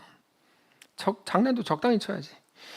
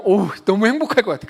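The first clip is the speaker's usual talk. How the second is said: mock delight; 3 semitones higher, 6 dB louder, faster than usual. Mock delight at rich father.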